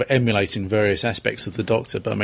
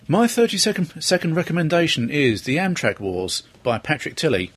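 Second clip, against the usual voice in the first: recommendation read. Acted. Reads a book recommendation.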